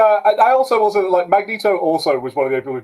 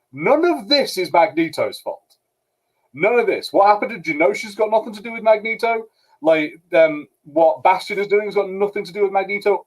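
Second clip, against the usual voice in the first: indignant retort; 6 semitones higher than usual. Retold or imitated. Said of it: "And I was like".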